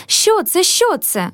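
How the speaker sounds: high, startled gasp of alarm; a lady caught off guard, rising up in alarm. A narrator's reading. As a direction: recoil in fright at the words. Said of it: "жахнулась пані".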